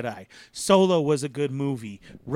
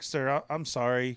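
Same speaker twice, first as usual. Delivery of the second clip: apologetic attendant; 5 semitones lower, 5 dB quieter than usual. Retold or imitated. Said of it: "And he's like".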